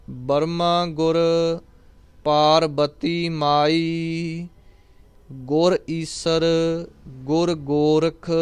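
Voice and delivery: measured devotional recitation, each word placed clearly; careful recitation. Acted. Teacher reciting again for students to listen closely. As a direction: recite the verse carefully so every ending is heard.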